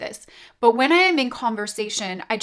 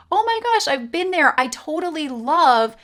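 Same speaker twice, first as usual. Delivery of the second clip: much higher, squealing delight; gushing; 5 semitones higher than usual. Retold or imitated. Telling a prospect she's been there, gushing. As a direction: gush like a long-lost friend.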